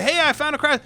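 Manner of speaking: high, loud re-enacted announcement; loud calling out. New tester reporting another find to the boss, calling out loudly. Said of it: "really loudly".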